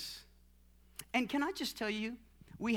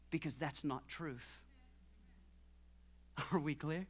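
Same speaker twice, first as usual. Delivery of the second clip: low, soft, measured telling-off; quiet firm confrontation; 7 semitones lower, 5 dB quieter than usual. Retold or imitated. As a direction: set them straight in a hushed, lowered voice. Acted firm talk to a counseled person.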